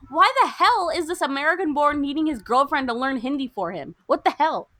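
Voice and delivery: indignant rant. Real, not acted. Host ranting about girlfriend learning Hindi for him, indignant.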